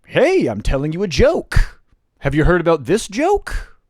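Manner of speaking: imitating a pushy, formal joke delivery; in-your-face joke-teller. Imitating early-career comic to the crowd, in-your-face. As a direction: announce the joke insistently, mildly hammed up. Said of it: "It was very in your face".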